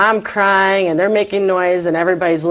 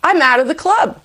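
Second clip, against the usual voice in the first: mock despair; 10 semitones higher than usual. Retells her panicked thought.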